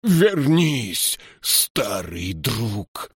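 high drawn-out call, falling away; ringing call. A narrator's reading. King calling his old friend back, ringing and drawn out. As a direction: carry it like a bell without yelling, slowing to the end. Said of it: "его голос разнёсся по тронному залу".

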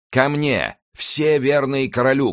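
high, drawn-out call; rallying shout. A narrator's reading. Winter rallies those loyal to the king, high shout. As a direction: summon loyal men across the field. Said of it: "крикнул Винтер".

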